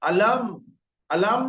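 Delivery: "আলাম" with m closed on the outer lips; wrong dry-lip meem. Shown as a demonstration. Teacher shows what to avoid, dry-lip "আলাম". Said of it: "এরকম বলা যাবে না".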